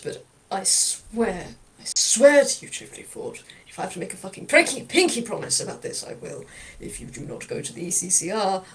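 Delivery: gruff threat. Acted. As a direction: swear it to him, menacingly. Lau's long threat to Chifley.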